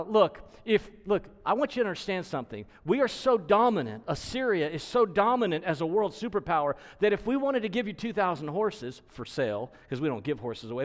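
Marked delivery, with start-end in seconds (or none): 0.0-9.7 raised, taunting superpower boast; mocking boast. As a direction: lord it over a weaker enemy. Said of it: "He's actually making fun of them".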